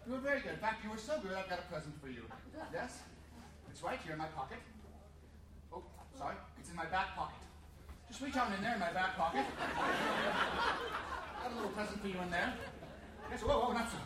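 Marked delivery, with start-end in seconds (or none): 1.3-12.5 sly lower offer. Pretend. Sleazy mock offer.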